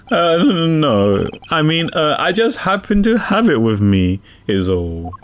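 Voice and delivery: detective character voice. Acted. Reads detective character lines.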